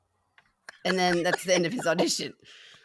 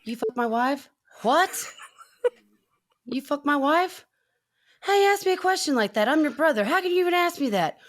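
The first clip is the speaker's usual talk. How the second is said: impersonating the auditioner; 5 semitones higher than usual. Retold or imitated. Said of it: "He goes".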